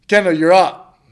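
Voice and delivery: announcer calling his name. Retold or imitated. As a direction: call the fighter to the cage. Official calling him to fight.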